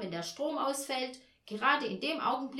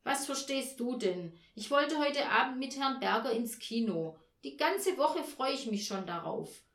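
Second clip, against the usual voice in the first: higher, louder, aggrieved rant; snapping tirade; 5 semitones higher, 6 dB louder than usual. A narrator's reading. Mother to Olaf about her ruined evening, snapping tirade. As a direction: pour out the frustration, raised and forceful. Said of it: "fuhr Frau Janka ihn an".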